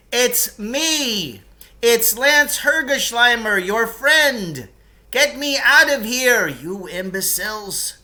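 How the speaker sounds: high, loud bellow, slowing on the insult. Acted. Trapped man bellowing at the watchers to get him out, high and loud. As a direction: yell at them to get you out.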